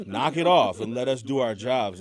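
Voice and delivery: loud, firm imitated order; booming mock reprimand; retold booming voice. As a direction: scold the crowd, imitating a big man on stage. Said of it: "he's got this real booming voice".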